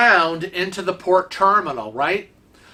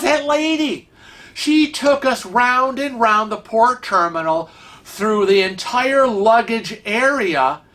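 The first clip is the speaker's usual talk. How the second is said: higher-pitched, exasperated retelling; indignant complaint; 5 semitones higher than usual. Retold or imitated. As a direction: imitate a fed-up man venting, stretching the last words. Acting out Kevin's indignant complaint.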